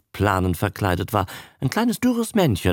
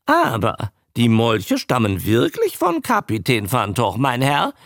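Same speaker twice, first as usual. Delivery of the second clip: bawling barker; 5 semitones higher than usual. Acted. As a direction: bawl it out to draw in the crowd. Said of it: "plärrte er".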